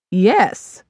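flat certain yes; matter-of-fact. Acted. Mother answering daughter, matter-of-fact. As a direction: state it as fact. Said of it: "she said matter-of-factly".

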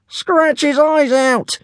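very high, drawn-out screech; screeching dragon. A narrator's reading. Dragon joins the boys' jeering, screeching. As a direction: screech it like a bloodthirsty creature. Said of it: "screeched Bright Claw".

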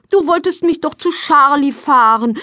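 put-on high, pleading child's complaint; impatient. A narrator's reading. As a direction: remind Mama impatiently. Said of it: "springt ungeduldig von einem Bein".

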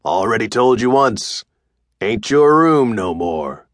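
slow, unbothered biker repeat; bored tough guy. Acted. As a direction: say it like he's tired of repeating. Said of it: "he said again".

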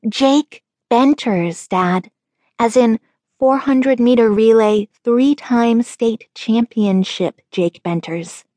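slow, stressing Jake Benters; insistent. A narrator's reading. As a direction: spell it out emphatically. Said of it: "I pressed".

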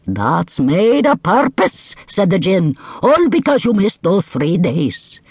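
high, firm djinn; commanding djinn. Acted. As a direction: order the camel out.

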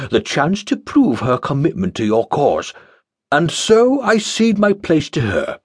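grandstand while weaseling out; pompous acolyte. Acted. Pompous Jeremiah's excuse.

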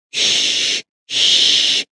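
whispered shush; hushing. Acted. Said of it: "they said to each other".

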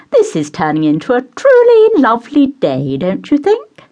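high, fluttery mother voice; high, gushing matron; doting society mother. Acted. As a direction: play the gushing hostess pouring tea.

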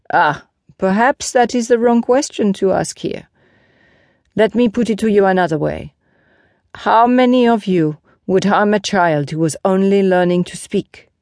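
lightly voiced knight posing a pointed question; a hint of a reproving teacher; Lancelot, challenging. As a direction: challenge the listeners with measured reproach.

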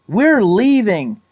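high, slow, emphatic call; yelled announcement. A narrator's reading. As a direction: declare it, fed up. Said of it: "Sarah yelled".

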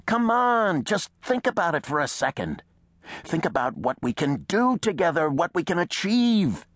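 high, impassioned persuasion; urgent plea. A narrator's reading. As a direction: plead hard to win him over. Second man urgently persuades Reese.

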